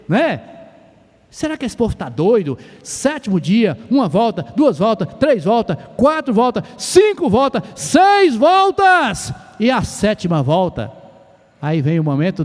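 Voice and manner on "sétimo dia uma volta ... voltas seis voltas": building from plain counting to a long, drawn-out shout; slow, huge shout on the final lap. Acted. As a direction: count the laps louder and higher each time, exploding on the last. Counting laps round Jericho's walls.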